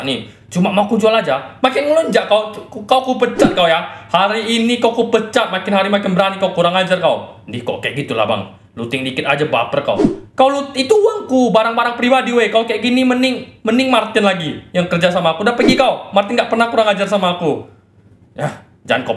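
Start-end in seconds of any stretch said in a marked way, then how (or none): 1.6-7.4 furious. Acted. Boss firing the insolent intern. 10.3-17.7 furious. Acted. Boss rages about the looting.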